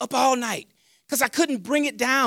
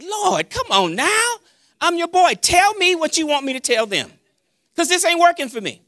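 exasperated pleading; 5 semitones higher than usual. Retold or imitated. Preacher begging God for clearer words, exasperated pleading. Acted complaint pleading with the Lord.

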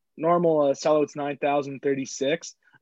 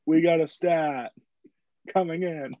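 slow announcer call; 2 semitones higher, slower than usual. Pretend. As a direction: announce it like a jingle. Announcing the stat segment.

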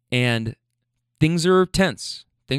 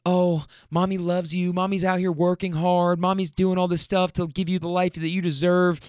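fake sweet voice; 4 semitones higher than usual. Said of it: "using this fake voice".

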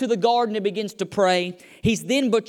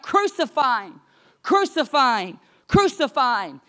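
repeated, half-raised crowd chant; mock crowd shout; 3 semitones higher than usual. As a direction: imitate a crowd's cry without full volume. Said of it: "they begin to shout".

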